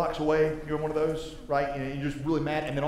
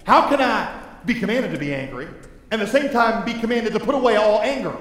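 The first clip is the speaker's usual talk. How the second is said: mock bewildered listener; 6 semitones higher, 6 dB louder than usual. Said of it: "And you're like".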